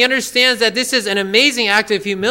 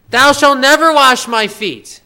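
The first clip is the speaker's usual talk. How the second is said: louder, forceful refusal; emphatic refusal; 3 semitones higher, 5 dB louder than usual. Retold or imitated. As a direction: insist as Peter, loud and firm. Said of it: "very emphatic in the original language".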